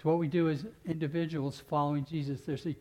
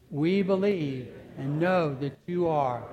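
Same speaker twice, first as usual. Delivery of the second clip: louder steady confession, fading at "of God"; loud declaration; 3 dB louder than usual. Acted. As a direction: proclaim it, then let it settle. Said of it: "Let's answer again".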